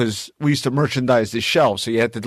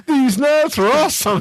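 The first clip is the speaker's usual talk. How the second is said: mock delight; 11 semitones higher, 3 dB louder than usual. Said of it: "he was like".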